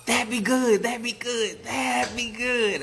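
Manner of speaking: loud, high hollered frog chant; big-voiced frog chorus; bullfrog call. A narrator's reading. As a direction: belt it out like big frogs calling. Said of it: "The bullfrogs called".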